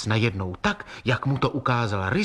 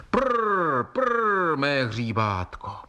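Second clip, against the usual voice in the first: called out to a foal; 4 semitones higher, much slower than usual. A narrator's reading. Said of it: "a vykřikl".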